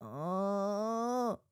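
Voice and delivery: imitating her pained moans; hammed-up groaning on the ground; mock moaning. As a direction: moan it out like a winded faller. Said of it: "she's going".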